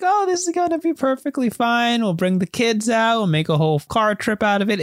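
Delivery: sing-song eager mother; lightly mocking a cheerful mom. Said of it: "the mom is, of course, like".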